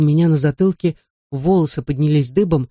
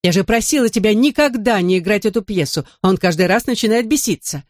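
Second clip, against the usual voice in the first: angry; 5 semitones higher than usual. Acted. Angry sister scolding.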